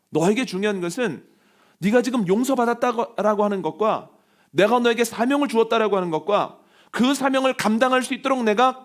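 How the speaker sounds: emphatic high-pitched exhortation; forceful preaching. Acted. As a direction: drive each point home to the congregation.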